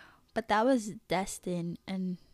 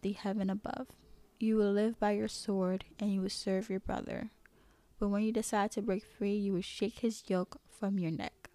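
measured narrator with a touch of feeling; story reading. A narrator's reading. Reading Esau's lost blessing to listeners, understated narration. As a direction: read the Bible story aloud, lightly acted dialogue.

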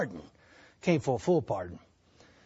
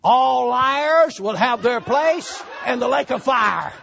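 devil's taunt; 3 semitones higher, 4 dB louder, slower than usual. Retold or imitated. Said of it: "this is what the devil said".

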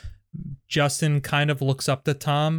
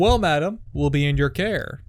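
suave charmer's line; smooth. Acted. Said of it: "Be very smooth".

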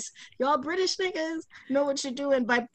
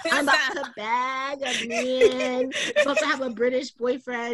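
giddy laughing; 2 semitones higher than usual. Retold or imitated. Teller voicing her giddy twenty-year-old self, laughing. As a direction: gloat through giggles.

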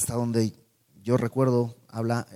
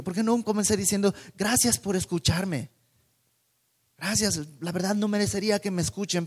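lightly voiced Paul, higher, scolding himself in a rush; Paul berating himself; 5 semitones higher than usual. Paul in his cell, regretting his speech, mild self-reproach. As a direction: replay the mistake, exasperated with yourself. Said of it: "Yo imagino ahí diciendo".

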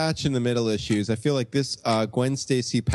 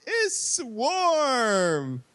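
announcer voice; 11 semitones higher than usual. Acted. Hyped announcement of new host.

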